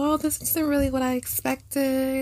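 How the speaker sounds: put-on sweet, polite baby voice. Retelling politely sending food back at a restaurant, in a put-on white voice. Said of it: "You put your white voice on".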